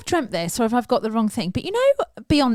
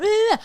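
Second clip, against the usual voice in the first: mock groan; 13 semitones higher, 3 dB louder than usual. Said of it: "He went".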